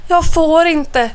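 high, slow protest; squeaking. A narrator's reading. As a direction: squeak like a scared child. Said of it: "piper Liam".

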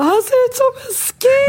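mock panic, voice cracking up high; panicked shriek. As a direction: shriek it in horror. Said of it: "alla grips av panik och jag bara".

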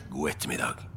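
low, quiet, icy dismissal; cold. Acted. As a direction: send him off coldly under the breath. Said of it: "ble om mulig enda kaldere". (kald, lav avvisning)

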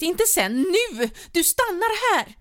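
very high and loud, slowing on the last command; hysterical screaming. A narrator's reading. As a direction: shriek the order at him. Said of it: "skrek hon hysteriskt".

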